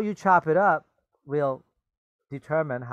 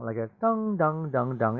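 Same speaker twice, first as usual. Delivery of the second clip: bell dong imitation. Shown as a demonstration. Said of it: "What's a dong?".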